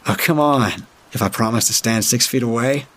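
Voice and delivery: lightly voiced pushy pleading; wheedling plea. The speaker, pushy, pleading with woman.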